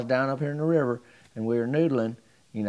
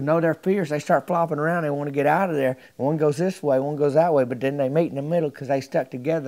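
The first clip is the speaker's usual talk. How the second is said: louder, higher, animated insisting; insistent telling; 4 semitones higher, 5 dB louder than usual. Retold or imitated. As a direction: sell the tall tale hard. Mort insists catfish are fierce.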